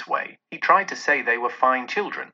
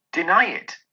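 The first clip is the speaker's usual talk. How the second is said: a raised, louder cry of "Deny it!"; spirit cries out; 5 semitones higher, 3 dB louder than usual. Acted. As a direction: hurl the command at him. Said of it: "cried the spirit".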